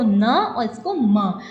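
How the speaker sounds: न and म drawn out slowly as "na" and "ma", through mouth and nose; teacher's slow nasal न, then म; nasal letter demo. Shown as a demonstration. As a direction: show the nasal sounds न and म, each held long. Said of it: "उच्चारण करने में थोड़ा नासिका का".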